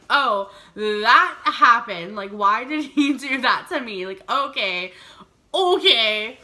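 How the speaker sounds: slow, loud, bewildered mock disbelief; lost for words after the comment; stunned. Stunned after odd remark.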